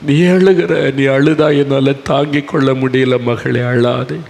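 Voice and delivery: rising earnest plea that fades back; impassioned comfort. Acted. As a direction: cry out don't weep, my daughter. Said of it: "அதுதான் இயேசுவனுடைய மனதுருக்கம்".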